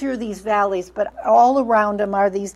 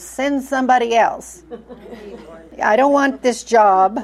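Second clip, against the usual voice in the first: mock reluctant Moses; 3 dB louder than usual. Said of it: "I can just hear Moses".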